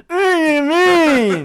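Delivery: high slow crying wail; wailing ghost. Shown as a demonstration. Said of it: "maybe do something like".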